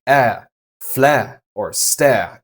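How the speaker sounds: British RP with the final R dropped; British RP accent. Shown as a demonstration. Teacher models the German R through British RP. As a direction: say each word in British RP, no R at the end. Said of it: "in the British R P accent".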